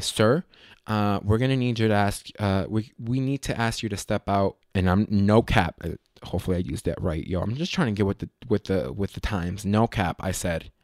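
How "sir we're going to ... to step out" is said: usual speaking voice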